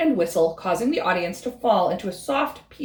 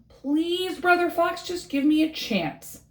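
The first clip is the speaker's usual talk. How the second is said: pleading frog; 6 semitones higher than usual. Acted. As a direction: beg for one small chance. Frog begs Fox.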